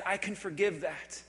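low, soft forgiveness; voice of God. Acted. Preacher voices God forgiving the listener, soft and low. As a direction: forgive gently, voice dropped low. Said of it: "The voice of God says".

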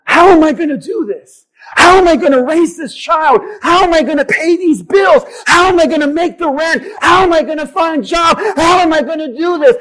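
voicing a struggling believer at pulpit pitch; anguished questioning. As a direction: preach the worried questions, each one driven harder. Preacher voices worried congregant's questions.

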